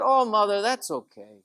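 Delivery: put-on a boy tells the nun why he keeps coming; little boy. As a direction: speak like a sweet ten-year-old. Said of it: "He said".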